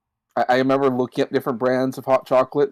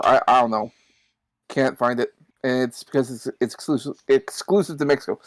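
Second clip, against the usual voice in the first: talking through hiccups; words broken by hiccups. Real, not acted. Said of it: "Sorry, I'm hiccuping".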